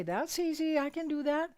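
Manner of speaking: wife cheerfully agreeing to leave him alone; cheerful agreement. Retold or imitated. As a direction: breezily give him all the space. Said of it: "And I would say".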